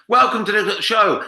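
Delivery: high, slow, beaming showman welcome; greeting a crowd like an eager American host; mock American MC welcome. American MC greeting the audience, drawn-out high welcome.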